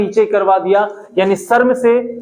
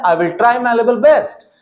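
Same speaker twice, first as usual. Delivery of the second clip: each word laid out slowly and clearly; slow model sentence; 2 semitones higher, much slower than usual. Shown as a demonstration. Teacher slowly models a phrase for students. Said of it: "नेक्स्ट आता है".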